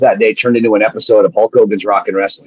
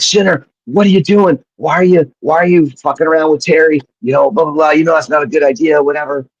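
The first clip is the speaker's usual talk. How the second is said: higher-pitched imitation of a nagging friend; mock scolding; 6 semitones higher than usual. Friend calls to scold him over a feud, mock nagging. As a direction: retell a friend's pestering phone call.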